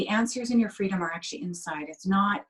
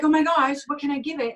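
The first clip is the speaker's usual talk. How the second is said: higher, louder frazzled mother in a store; a mother at her wits' end over a crying baby; harried parent begging for a fix, higher and louder; flustered mom; 6 semitones higher, 3 dB louder than usual. Retold or imitated. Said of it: "and you're like".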